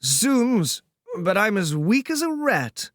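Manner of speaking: weak but amused English lord; affected drawl of a trussed gentleman; sleepy drawly fop. Acted. Percy's voice held.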